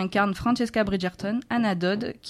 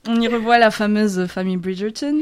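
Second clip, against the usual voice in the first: put-on English accent; 6 dB louder than usual. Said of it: "Pourquoi je prends un accent anglais d'ailleurs".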